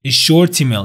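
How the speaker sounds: "a short email" joined as "a shortemail"; linked words. Shown as a demonstration. Teacher repeating the linked phrase, linked words. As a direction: let the t of "short" begin "email". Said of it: "اینا رو به هم دیگه وصل کرد".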